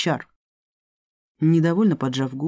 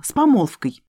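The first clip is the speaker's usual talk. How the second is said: hissed; 5 semitones higher, 4 dB louder than usual. Acted. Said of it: "неожиданно прошипела Элина".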